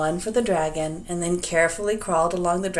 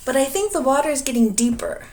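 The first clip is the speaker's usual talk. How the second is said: shrieked; 6 semitones higher, 3 dB louder, faster than usual. A narrator's reading. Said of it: "shrieked the dragon".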